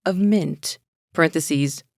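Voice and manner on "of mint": a lightly voiced snooty wine expert, slowing on the last phrase; playful mock sommelier reading to a friend. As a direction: savour each word like tasting wine, a hint of pomp. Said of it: "Give me your best, uh, sommelier voice".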